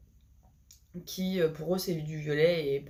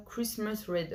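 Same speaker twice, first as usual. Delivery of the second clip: French accent on English; 2 semitones higher, 4 dB quieter, slower than usual. Real, not acted. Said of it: "vous avez pu entendre mon accent".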